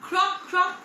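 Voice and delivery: high, loud croak croak; playful frog sound. Shown as a demonstration. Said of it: "what sound does the frog make".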